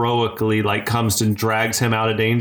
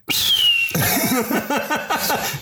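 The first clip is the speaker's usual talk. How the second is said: eagle screech imitation. Shown as a demonstration. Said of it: "you wanna do the eagle noise?".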